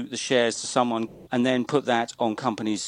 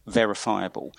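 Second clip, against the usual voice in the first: "verifiable" set apart for emphasis; stress on verifiable; 3 semitones lower than usual. Real, not acted. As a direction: repeat "verifiable" with deliberate weight. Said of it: "I want to stress the word".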